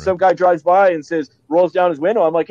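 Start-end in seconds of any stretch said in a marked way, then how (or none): none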